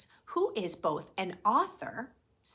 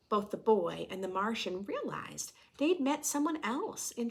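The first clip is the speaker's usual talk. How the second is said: storytelling voice. A narrator's reading. Reading picture book to class.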